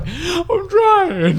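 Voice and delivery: mock crying whine. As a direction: whimper it like you're sobbing. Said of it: "You're just like, water all over your eyes".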